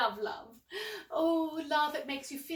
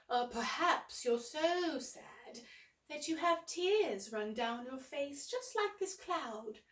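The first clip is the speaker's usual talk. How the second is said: gently sad; 4 dB quieter, slower than usual. Acted. Describing sadness to kids.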